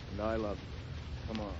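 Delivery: soft, slow, tender confession. Acted. A husband softly tells his stubborn wife he loves her. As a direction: drop to a soft, slow whisper of love.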